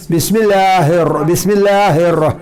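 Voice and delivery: बिस्मिल्लाहिर with a thin, light लाम; light lam. Shown as a demonstration. Teacher shows the light lam after a zer. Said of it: "मुंह खुलता नहीं है ऐसे".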